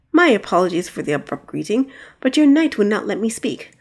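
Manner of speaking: a touch of a growling dragon; lightly growled courteous dragon; dragon's growl. Acted. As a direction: dragon apologizes to the princess, mild growl. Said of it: "The dragon growled words".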